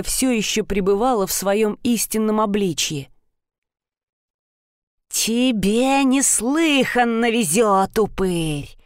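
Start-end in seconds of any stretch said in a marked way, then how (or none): 5.1-8.8 slow hissing threat through bared fangs; breathy hiss through teeth. Acted. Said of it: "прошипела великанша".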